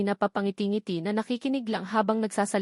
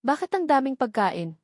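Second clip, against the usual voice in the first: joking question. A narrator's reading. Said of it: "pabiro kong tanong".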